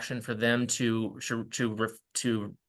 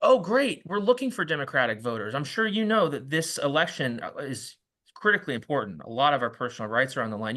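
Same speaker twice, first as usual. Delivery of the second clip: enthusiastic reply. Shown as a demonstration. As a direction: sound delighted and keep going. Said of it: "And you're like".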